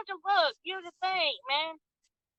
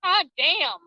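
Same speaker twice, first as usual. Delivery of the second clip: frustrated outburst; 5 semitones higher, slower than usual. Real, not acted.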